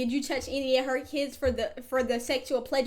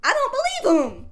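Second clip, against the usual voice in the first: laughing; 7 semitones higher, 5 dB louder than usual. Real, not acted. Streamer cracking up at guest.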